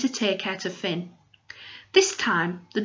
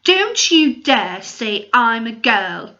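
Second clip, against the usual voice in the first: slow, louder indignant retort; angry; 6 dB louder, slower than usual. Acted. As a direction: make him not dare finish it. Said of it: "said Maya angrily".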